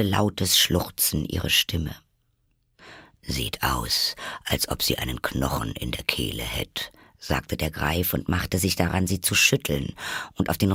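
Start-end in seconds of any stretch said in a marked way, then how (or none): 3.2-6.9 low, soft creature voice; Griffin voice. Acted. Griffin remarking on the choking turtle, low character voice. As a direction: drop well down for the Griffin.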